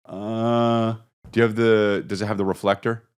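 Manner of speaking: a hint of an eager dork voice; nerdy customer. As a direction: ask like a keen collector at the counter. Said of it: "I'm that guy".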